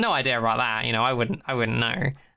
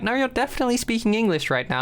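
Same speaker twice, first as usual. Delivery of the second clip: mock protest; 8 semitones higher, faster than usual. Retold group answering the alien.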